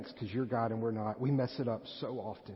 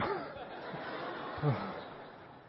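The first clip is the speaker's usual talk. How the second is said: laugh; 7 semitones higher, 3 dB quieter than usual. Real, not acted. Laughs after quoting his daughter.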